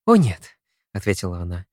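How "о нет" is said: high, loud cry of no; alarmed protest. A narrator's reading. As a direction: stop him with a sharp cry.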